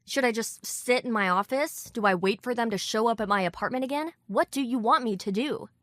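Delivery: rising, heated voice. Acted. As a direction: keep the protest climbing. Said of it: "with my voice getting higher and louder".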